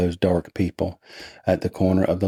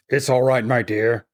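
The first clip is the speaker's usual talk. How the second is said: a higher, lightly acted woman's reassurance; lightly voiced reassuring woman; 5 semitones higher than usual. A narrator's reading. Grieving household's woman to visitor, lightly voiced reassurance. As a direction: reassure them in a slightly raised character voice.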